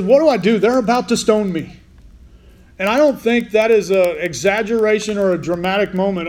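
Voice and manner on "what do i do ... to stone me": panicked plea. Acted. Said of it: "he says".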